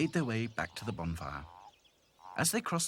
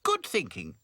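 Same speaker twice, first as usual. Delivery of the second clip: high doll voice; 5 semitones higher, 4 dB louder than usual. Acted. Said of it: "said Dotty".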